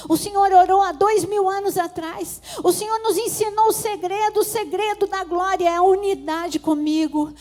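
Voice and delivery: loud, high, impassioned prayer to Jesus; fervent prayer. Acted. Pastor praying for the church, loud and impassioned. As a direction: pour it out to God at full force.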